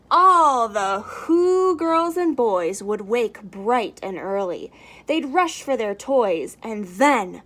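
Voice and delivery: lively storybook read-aloud; reading to children. A narrator's reading. Teacher reading the Grinch to children, lively storybook voice. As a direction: read it out like story time for little ones.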